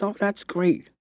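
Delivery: fake-impressed sarcasm; mock praise. Lawyer mocking the cop's five thousand tests, sarcastic. Lawyer mocks expert's claim.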